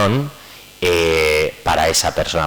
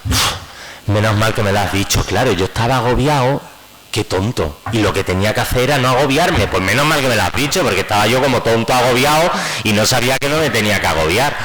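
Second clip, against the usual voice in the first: mock relief; 4 semitones higher than usual. Sarcastic reply to wife.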